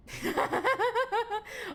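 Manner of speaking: high giddy burst of laughter; delighted laugh. Real, not acted. Reader delighted by pretty alien.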